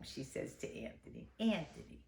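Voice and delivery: soft whispered lead-in to Nonna. Acted. Storyteller whispers Nonna calling Anthony. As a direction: breathe the words as a hush.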